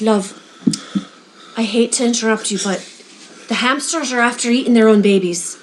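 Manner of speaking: lightly voiced Irish old lady; a polite Irish accent with a short hesitation. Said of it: "this little old lady comes up".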